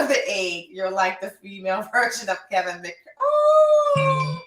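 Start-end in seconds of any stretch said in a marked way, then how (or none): 3.2-4.4 high, loud, emotional outburst; gushing over a viewer's compliment; overwhelmed squeal. Real, not acted.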